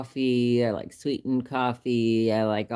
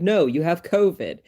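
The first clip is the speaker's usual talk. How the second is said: quoting the doctor; 6 semitones higher, 5 dB louder than usual. Retold or imitated. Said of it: "And he's like".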